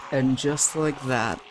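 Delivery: slow, hushed dramatic narrator; mock-solemn narration. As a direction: narrate your own downfall gravely, with long pauses. Mock-solemn narration of his death.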